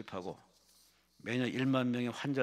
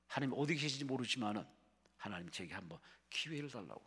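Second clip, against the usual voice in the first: humble pleading prayer; 2 semitones lower, 5 dB quieter than usual. Retold or imitated. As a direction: murmur a timid prayer, acting out the man praying. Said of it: "드디어 그는 기도합니다". (낮고 조심스럽게 간구하는 기도)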